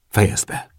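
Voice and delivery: restrained anger squeezed through the teeth; a tight, held-in warning; through gritted teeth. A narrator's reading. Narrator ordering his friend to stop, through gritted teeth. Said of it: "Szűrtem ki a fogaim között".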